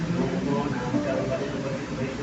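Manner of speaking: subdued, steady congregational prayer; settled pastoral praying; earnest prayer. Real, not acted.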